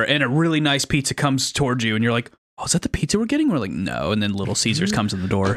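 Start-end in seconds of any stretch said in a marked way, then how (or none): 2.6-3.5 high, eager imitation of a hungry guest; mock hopeful question. Guest asking about the nice pizza, mock hopeful. 3.7-4.1 sudden low, softened put-down; deadpan refusal. Retold or imitated. Host letting down a hopeful pizza guest, deadpan. Acting the deflating answer to guest.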